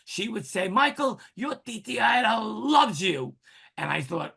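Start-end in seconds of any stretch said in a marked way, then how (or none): 0.7-3.3 high, doting aunt's sign-off; lifted voice, leaning on "loves"; Titi Ida. Retold or imitated. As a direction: imitate an aunt's raised-pitch declaration of love. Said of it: "whenever I closed my conversations with my Aunt Ida, she would say".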